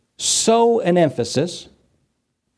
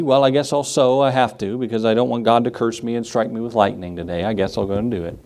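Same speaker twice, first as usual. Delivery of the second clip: grudging giver; 4 semitones lower than usual. Acted. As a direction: act out giving in grudgingly. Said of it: "Not grudgingly".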